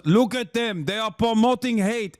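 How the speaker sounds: lightly voiced accented envoy; Danny Danon. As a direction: mimic an accusing official with a put-on accent. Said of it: "because he goes".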